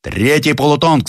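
high shouted order; commanding shout. Acted. Captain to his square, high shouted order. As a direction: call the volley sharply. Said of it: "скомандовал Зарядьев".

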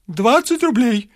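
a hint of dry old man; dryly. A narrator's reading. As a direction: state the price flatly. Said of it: "сухо сказал Варфоломеич".

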